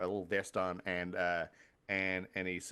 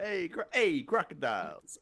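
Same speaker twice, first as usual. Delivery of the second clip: higher-pitched imitation of calling out; half-yell it, pitched up on the hey; mock yell; 6 semitones higher than usual. Game master imitating the player's yell to crocodiles, mock calling out. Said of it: "so you're yelling".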